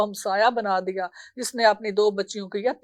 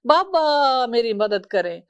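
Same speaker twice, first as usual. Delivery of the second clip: slow, begging plea after the long cry; pleading call for help; slower than usual. Acted. Girl pleading with her father for help, slow. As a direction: ask your father for help one last time. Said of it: "آخری جو آواز تھی اس کی تھی".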